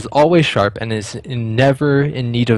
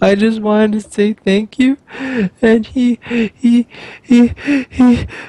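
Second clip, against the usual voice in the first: put-on sobbing, crying child voice, higher pitched; 12 semitones higher, 4 dB louder than usual. Voicing a child sobbing into a patron's chest: sobbing child voice. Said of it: "actively sobbing into his chest, so it's all muffled".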